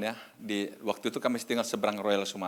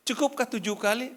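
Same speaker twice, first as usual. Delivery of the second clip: higher-pitched, rising question; 10 semitones higher than usual. Acted. Peter asks Jesus if seven times is enough, questioning. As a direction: ask it high, checking if that is enough.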